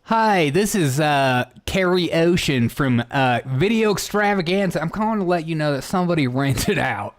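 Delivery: put-on video store clerk; lightly performed voicemail greeting; prank caller role. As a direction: announce yourself as the store calling.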